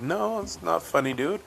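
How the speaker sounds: retold disapproval. Retold scolding of friend.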